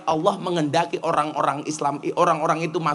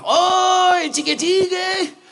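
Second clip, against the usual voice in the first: high shout, stretched slowly; calling out loud; 12 semitones higher, 4 dB louder, much slower than usual. Retold or imitated. The man shouts again at the preacher, high and slow. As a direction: bellow the greeting up high, drawn out. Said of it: "Wonge bengok meneh".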